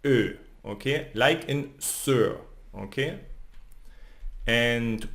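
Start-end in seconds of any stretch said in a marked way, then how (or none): 0.0-0.4 Ö like the vowel in sir; German ö sound. Shown as a demonstration. Teacher shows learners the German ö sound. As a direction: say Ö with rounded lips but an E tongue. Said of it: "So it's".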